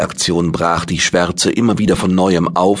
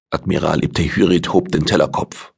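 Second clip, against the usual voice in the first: ordinary delivery, nothing marked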